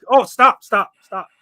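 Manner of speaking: exasperated loud pleading; loud protest. Real, not acted. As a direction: shut it down loudly. Reacting to hood talk.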